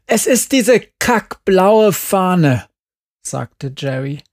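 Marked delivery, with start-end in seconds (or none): 0.1-2.7 slow, high, loud cursing; angry outburst. A narrator's reading. Upset Jerry blames the blue flag, angry outburst. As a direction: spit out the complaint, word by word.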